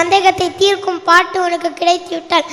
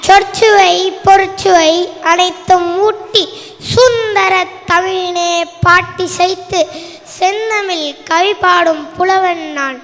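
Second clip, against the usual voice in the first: grand declamation. Acted. Stranger proudly introducing himself as a poet, declaiming. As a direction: announce yourself like a court poet.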